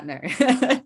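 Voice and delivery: high, loud mocking no; mocking American accent. Guest mocking an American, high loud no. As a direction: squeal it in the mock American voice. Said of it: "demonstrate for us in your most mocking of ways".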